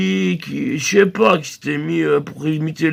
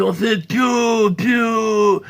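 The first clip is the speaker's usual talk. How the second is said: bird chirp; 4 semitones higher, much slower than usual. Shown as a demonstration. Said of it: "on fait comment?".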